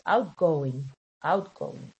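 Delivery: "outgoing" said slowly, with middle stress on out; stress pattern demo. Shown as a demonstration. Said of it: "the middle stress here".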